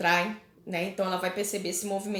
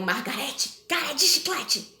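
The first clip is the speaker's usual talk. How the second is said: cantado como provocação de criança; rima de brincadeira; 3 semitones higher than usual. Shown as a demonstration. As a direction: zombe do nome como brincadeira de recreio. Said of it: "Por exemplo". (provocação infantil rimada)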